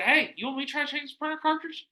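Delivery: high-pitched polite offer; high, light voice; retold helpful offer. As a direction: pipe up high to offer help. Retold offer to help employees.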